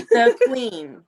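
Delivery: short put-on British flourish; name royalty in a mock British accent. Shown as a demonstration. Host keeps up her British act for the guest, mock British accent. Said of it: "love to hear your British accent".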